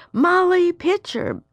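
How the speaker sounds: high, drawn-out call across the cannons; imitated shout. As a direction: call out slowly like soldiers needing help. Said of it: "the men would shout out".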